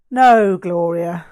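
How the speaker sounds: sighed. Acted. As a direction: patiently correct her, tired of it all. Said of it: "I sighed".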